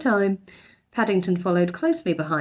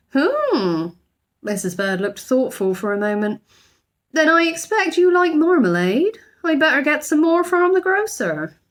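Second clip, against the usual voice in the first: loud, high gruff housekeeper; thoughtful housekeeper; 8 semitones higher, 4 dB louder than usual. A narrator's reading. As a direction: hide kindness under gruffness. Mrs Bird thoughtful then kindly.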